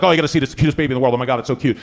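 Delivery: gushing parent. Retold or imitated. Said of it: "They're like".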